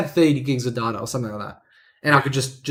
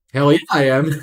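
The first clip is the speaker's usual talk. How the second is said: laughing. Retold or imitated. Eager reply to snowboard guy.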